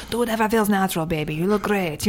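put-on a light, mixed European accent, loosely German and French; vague European accent. Imitating easygoing Europeans, in a vague European accent. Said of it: "the ambiguous European accent".

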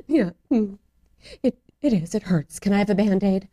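small, subdued child's voice, lightly imitated; daughter, done crying. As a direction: settle down like a soothed child. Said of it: "she stopped crying and said".

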